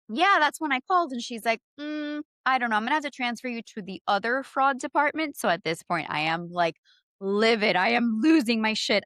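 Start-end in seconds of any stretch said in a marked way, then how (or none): 1.8-5.4 condescending. Retold or imitated. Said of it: "she was very condescending".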